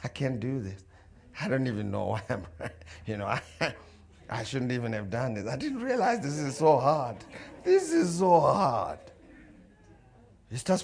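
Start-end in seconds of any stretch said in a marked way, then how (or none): 0.0-5.5 quiet, low grumble to oneself; acted discouraged runner; defeated self-talk. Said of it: "starts preaching a sermon to himself". 5.5-9.0 acted exhausted runner's lament; defeated self-talk. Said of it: "starts preaching a sermon to himself".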